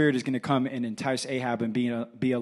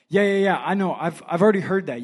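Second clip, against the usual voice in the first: loud, high dismissive yeah-yeahs; acted know-it-all impatience; impatient brush-off; 4 semitones higher, 5 dB louder, faster than usual. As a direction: wave it off impatiently. Acting impatient listener brushing off God.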